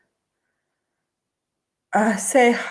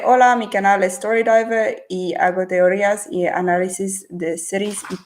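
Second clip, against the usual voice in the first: halting Spanish with an English-speaker's accent; Spanish in a self-confessed terrible accent; non-native Spanish accent. Real, not acted. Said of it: "Sorry, my accent is terrible".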